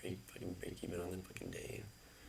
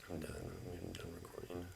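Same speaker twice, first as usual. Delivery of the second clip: defeated sign-off; 7 dB quieter than usual. Real, not acted. Quitting the video.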